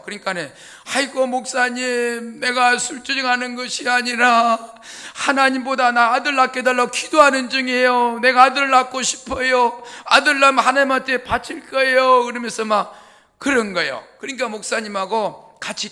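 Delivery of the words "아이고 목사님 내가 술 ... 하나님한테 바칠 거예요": louder, higher earnest pleading; retold woman pleading loudly with the pastor. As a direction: insist to the pastor, voice raised.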